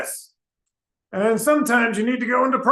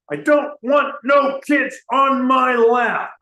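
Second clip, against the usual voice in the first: shout; 3 semitones higher than usual. Acted. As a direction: yell the chorus at them, fed up. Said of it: "I'm gonna shout".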